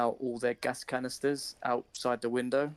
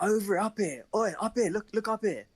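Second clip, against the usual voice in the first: raised, high calling voice; calling up here; 9 semitones higher, 3 dB louder than usual. Retold or imitated. Shouting down to the men in the car, calling out loud. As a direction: call out loud so they look up. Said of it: "I was like".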